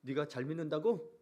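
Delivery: mock scorn rising at the end. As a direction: taunt a believer with feigned doubt. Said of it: "비웃는다는 거예요".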